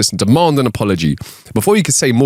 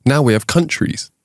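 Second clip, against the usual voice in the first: whisper. Acted. Whispered punchline setup.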